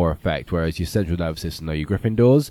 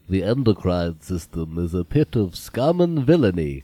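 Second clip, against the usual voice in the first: lightly voiced Obi-Wan, slow and grave; a hint of old Jedi gravitas, slowed down; Alec Guinness impression; slower than usual. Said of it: "outstanding Alec Guinness impression".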